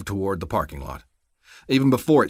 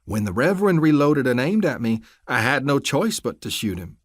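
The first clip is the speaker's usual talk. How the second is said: scornful deputy; 5 semitones higher than usual. Acted. Crooked deputy sneering his cover story at the captives.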